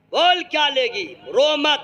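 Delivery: coaxing husband. Acted. Husband coaxing crying wife.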